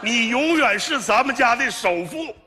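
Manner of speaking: high, slow, drawn-out declaration; grand proclamation. Acted. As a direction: proclaim it slowly to the whole family. Father-in-law's solemn closing proclamation.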